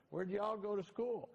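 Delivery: mock Texan boss, high and slow; the speaker's drawl. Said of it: "And he said".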